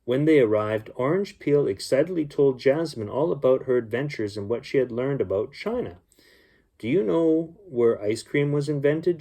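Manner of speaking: gentle storybook reading voice; story narration. A narrator's reading. Uncle reading a bedtime story to children, storybook voice. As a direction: read it like a bedtime story for kids.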